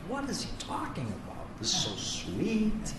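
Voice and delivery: a hushed, baffled echo of the teacher; incredulous mockery. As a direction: mutter it as a disbelieving beginner. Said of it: "I was like".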